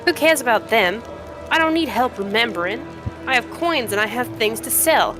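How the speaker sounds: feisty trader putting the stranger in their place; brash cave trader. Acted. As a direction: haggle like a proud junk dealer.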